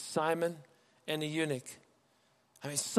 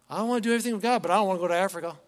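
higher, louder, reluctant plea; reluctant whine; 3 semitones higher, 6 dB louder, much faster than usual. Pretend. Reluctant believer pleading not to be sent, mock whine. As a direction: whine it like you're dodging the call.

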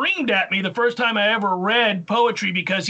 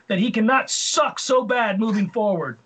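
emphatic reading of a complaint; read with emphasis. Real, not acted. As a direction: lean into "suck so bad". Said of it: "you read that with em-, emphasis".

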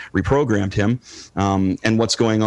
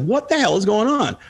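a milder, higher baffled question; reader's confusion; 9 semitones higher than usual. Retold or imitated. Recalling his own teenage confusion over the comic, mildly baffled. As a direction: lighter mock puzzlement, still raised. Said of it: "It's like".

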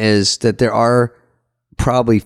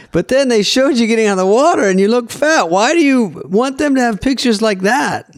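high-pitched, slightly German waiter voice; dubious German accent; 13 semitones higher than usual. Retold or imitated. Waiter teasing a regular about pool photos, high off-target German accent. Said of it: "Slightly, slightly Germany".

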